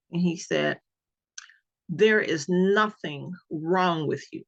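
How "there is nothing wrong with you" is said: slow, spaced-out stress on "There is nothing wrong with you"; emphatic angry doctor. Retold or imitated. Doctor dismissing his patient after seeing her paperwork, slowly emphatic on "nothing wrong". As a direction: imitate him weighting "nothing wrong" slowly and deliberately. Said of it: "it was the emphasis that he put on".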